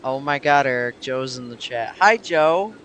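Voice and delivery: peaking overloaded mic; loud clipped audio; clipping distorted mic. Real, not acted. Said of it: "my audio is peaking".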